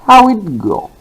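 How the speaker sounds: teacher modelling a wh-question tune; high falling question. Shown as a demonstration. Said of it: "repeat after me".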